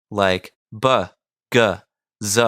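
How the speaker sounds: "b", "g", "z" said with full voice; voiced consonants. Shown as a demonstration. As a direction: buzz the voiced "b", "g", "z". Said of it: "using voiced consonants".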